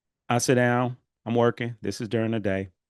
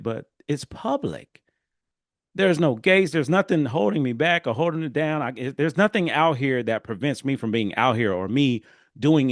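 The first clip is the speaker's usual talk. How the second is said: louder and higher, pushing to be heard; raised voice; 5 semitones higher, 4 dB louder than usual. Retold or imitated. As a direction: argue loudly to get your point across. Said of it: "I'm raising my voice to be heard".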